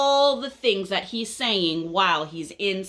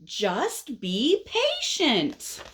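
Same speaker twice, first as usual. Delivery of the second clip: exasperated, high and drawn-out scolding; big angry words; 10 semitones higher, much slower than usual. Acted. Fed-up friend scolds the caterpillar, angry. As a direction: stretch each word out big and cross. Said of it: "he says his words really big, which means he's pretty angry".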